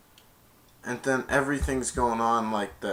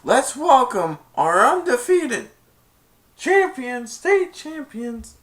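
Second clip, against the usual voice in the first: high, loud, slow drawn-out PA call; imitated game announcer; stadium announcer; 12 semitones higher, 7 dB louder, slower than usual. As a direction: stretch every word over the stadium. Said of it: "He went".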